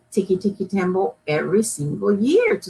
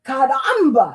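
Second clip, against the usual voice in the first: exclaimed; 4 semitones higher than usual. Acted. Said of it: "exclaimed the carpenter".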